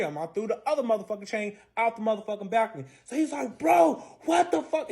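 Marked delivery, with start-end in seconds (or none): 3.6-4.9 high, slow, stretched-out outrage; acted exasperated disbelief; retold pissed-off protest. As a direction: imitate him pissed, drag it out high. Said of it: "He's pissed".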